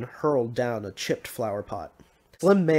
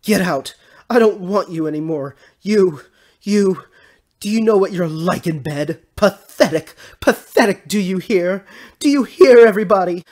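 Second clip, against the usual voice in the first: high, loud rage building to a yell; enraged woman, very loud and high; furious shouting; 8 semitones higher, 13 dB louder than usual. Acted. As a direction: yell it down for the whole street to hear. Enraged woman yelling from balcony.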